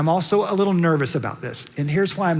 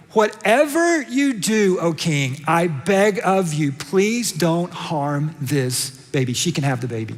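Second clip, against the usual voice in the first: pleading mother; slower than usual. Acted. Mother begs king to spare baby.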